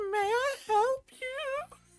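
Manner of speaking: very high, put-on female character voice. Reading dialogue aloud and doing a woman's voice: female character voice. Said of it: "I'm gonna do her voice".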